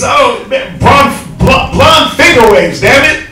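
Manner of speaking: fired up and indignant; heated rant. Real, not acted. Heated rant about blonde wigs.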